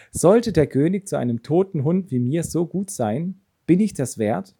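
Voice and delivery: exclaiming. Acted. Mephibosheth before the king, exclaiming in disbelief. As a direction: cry out in stunned disbelief. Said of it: "rief er aus".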